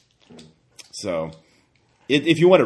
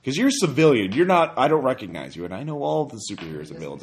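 higher, louder questioning voice; suspicious superhero; 6 semitones higher, 5 dB louder than usual. Acted. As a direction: press them hard, half amused. GM voices hero interrogating zombie.

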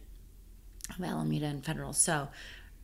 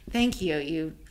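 laughing thanks; 3 semitones higher, 7 dB louder than usual. Retold or imitated. Retelling her grateful thought.

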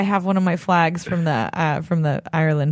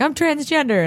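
imitating old lady; 10 semitones higher than usual. Quoting old lady in line.

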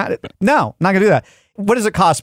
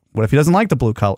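anxious fast worry; 3 semitones lower, faster than usual. Retold or imitated. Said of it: "I start freaking out".

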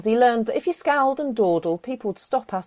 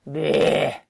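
disgusted bleh; 4 semitones lower than usual. Acted. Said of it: "said Joy".

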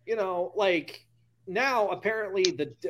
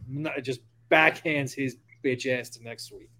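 ordinary talk

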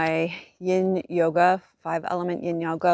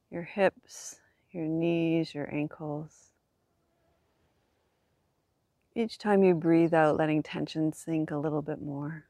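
calm voice easing tension away; soft spa whisper; 3 dB quieter than usual. Acted. Guides body relaxation on back.

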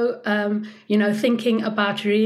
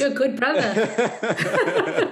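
slow, amused teasing through a laugh; laughing tease; much slower than usual. Real, not acted. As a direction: tease him fondly while laughing. Teasing remark after story.

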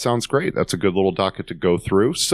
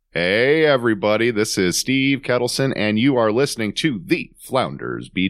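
podcast host intro; 3 semitones higher than usual. Acted. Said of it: "I need five seconds of silence".

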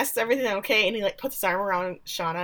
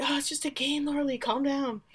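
high, softer mock reassurance; dismissive soothing; 7 semitones higher, 5 dB quieter than usual. Friends calming the objector, mock dismissive. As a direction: brush it off in a raised voice.

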